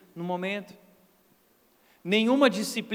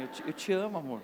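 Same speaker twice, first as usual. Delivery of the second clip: mock sweet appeasing; 5 semitones lower, 7 dB quieter, faster than usual. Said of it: "eu falo assim".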